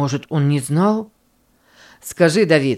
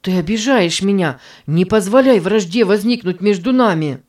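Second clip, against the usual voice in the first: pleading; 3 semitones higher, 4 dB louder than usual. Acted. Давид умоляет обиженного друга.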